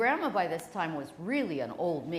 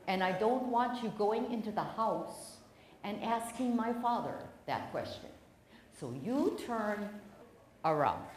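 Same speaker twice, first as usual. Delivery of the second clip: firm refusal. Retold or imitated. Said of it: "And she said".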